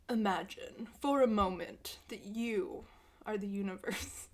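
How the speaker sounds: dramatic reading voice. Shown as a demonstration. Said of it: "I'm not gonna read it in that voice the whole time".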